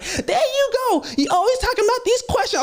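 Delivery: very high, put-on voice of a taunting girl; high, sneering girl in the group chat; mocking girl's voice. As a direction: tease him in a high mocking voice.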